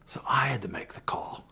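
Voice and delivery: a tearful near-whisper; choked up. Real, not acted. Remembering his confession to the store owner, tearful near-whisper. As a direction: voice catching as tears come.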